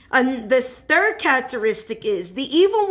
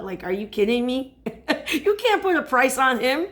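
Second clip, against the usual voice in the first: laughing disbelief. Real, not acted.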